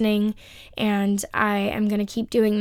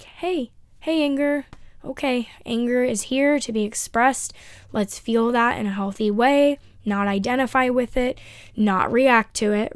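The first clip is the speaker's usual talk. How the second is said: gently greeting anger; 3 semitones higher than usual. Shown as a demonstration. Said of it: "Try to just be like".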